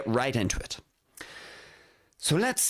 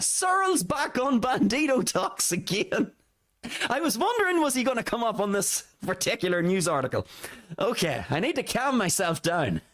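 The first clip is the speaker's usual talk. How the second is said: amused, struggling to calm down; laughing; 3 semitones higher than usual. Real, not acted. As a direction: say it through a laugh. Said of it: "I shouldn't be laughing".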